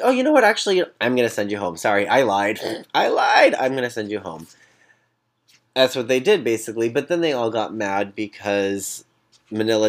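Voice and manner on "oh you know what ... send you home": mock betrayal. Queens voting out Latrice after reassuring her, mock sly. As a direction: play the sudden sly backstab. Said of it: "you're like".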